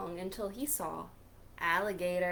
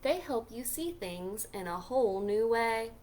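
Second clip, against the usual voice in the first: cool Grumpy Toad; slower than usual. Acted. Toad offering Pete the sunglasses, slow and cool. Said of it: "He said".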